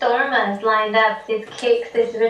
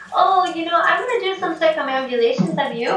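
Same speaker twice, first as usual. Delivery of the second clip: higher, sweetly naive request; Ben asking a favour; 5 semitones higher than usual. Retold or imitated. Ben asks the Buddha statue to mind his pack, higher and naive. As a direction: ask the statue innocently, pitched up. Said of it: "and he says".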